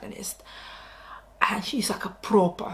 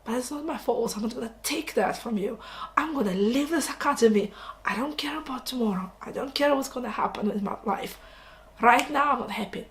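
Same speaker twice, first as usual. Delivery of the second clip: higher, louder defiant rant; a seventeen-year-old cadet defying the academy in a higher, louder tantrum; teenage tantrum; 3 semitones higher, 4 dB louder than usual. Retold or imitated. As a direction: throw a hammed-up teenage tantrum. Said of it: "He goes like".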